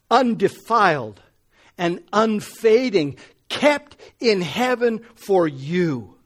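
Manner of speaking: solemn scripture reading that swells in the middle; a preacher reading Peter aloud. Acted. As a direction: read the verses with growing fervour. Reads scripture passage aloud.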